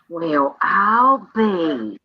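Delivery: put-on slow, sassy old-lady drawl. Aunt repeats the niece's grown-up line, slow and sassy. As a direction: stretch it out with sass. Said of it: "sassy manners".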